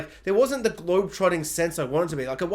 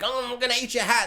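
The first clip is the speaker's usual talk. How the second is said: higher, lightly voiced dinosaur; 4 semitones higher than usual. Dinosaur threatening to eat his hat, playful higher voice. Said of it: "some dinosaurs are like".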